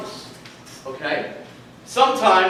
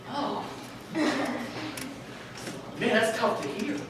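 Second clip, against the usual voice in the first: stunned and hurt; 7 semitones higher, 10 dB quieter than usual. Retold or imitated. Stung by dad's criticism.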